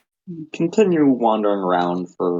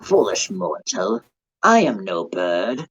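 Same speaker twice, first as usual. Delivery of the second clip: dark lord; slower than usual. Acted. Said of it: "moves down to be on eye level with you and says".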